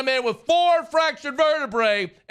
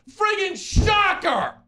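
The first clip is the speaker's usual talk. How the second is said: slow, high, mocking yell; sarcastic shout; 5 semitones higher, much slower than usual. Real, not acted. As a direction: bellow the punchline with scorn. Sarcastic rant at the coach.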